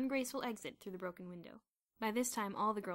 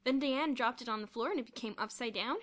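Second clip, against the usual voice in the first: raised, giddy telling; mild hysteria; 5 semitones higher, 5 dB louder than usual. A narrator's reading. Kathy explaining the baking mishap, mildly hysterical. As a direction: tell it as if half hysterical. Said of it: "still hysterical".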